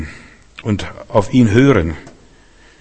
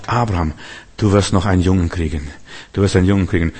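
low, soft, solemn voice of the Lord; 4 semitones lower, 5 dB quieter, faster than usual. Acted. The Lord promising Abraham a son, low and solemn. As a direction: speak as God, low and quiet. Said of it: "dann sagt der Herr zu Abraham".

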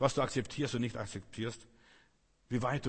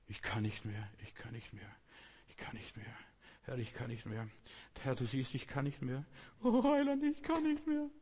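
whiny defeated believer; 4 dB quieter than usual. Retold or imitated. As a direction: imitate a worn-out complainer giving up. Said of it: "ob du blockiert wirst oder nicht". (spöttisch nachgeahmtes Jammern, erst leise, dann hoch klagend)

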